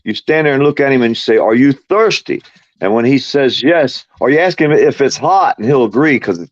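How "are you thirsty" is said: teasing question. Shown as a demonstration. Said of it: "let me show you how".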